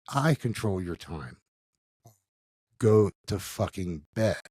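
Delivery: very slow, controlling order; stern stepdad. Retold or imitated. Stepdad orders boy to bed, slow menacing command. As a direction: imitate a menacing stepdad, each word drawn out.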